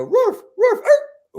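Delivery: high yelping mock bark; dog barking. Dog hit by the collar, high startled yelps. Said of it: "most of the dogs, they go".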